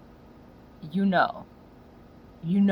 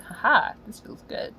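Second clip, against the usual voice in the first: dog enjoying itself; 2 semitones higher than usual. Retold or imitated. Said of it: "Another dog's like".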